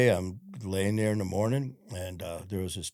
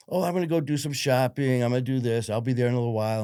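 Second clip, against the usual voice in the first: mom's voice; 4 semitones higher, 5 dB louder, faster than usual. Retold or imitated. Mom cheerful, unaware.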